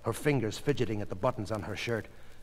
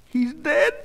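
high, raised, alarmed; fearful question; 5 dB louder than usual. A narrator's reading. Goldie asking the doctor about her husband, fearful. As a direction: ask in dread, voice pitched up. Wife fears husband has died.

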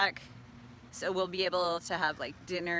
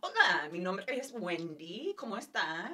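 gringo Spanish accent. Shown as a demonstration. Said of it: "I sound like a freak speaking Spanish".

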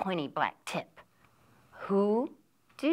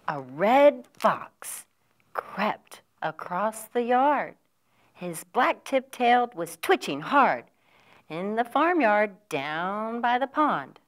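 story narration. A narrator's reading. Librarian reading a picture book to little children.

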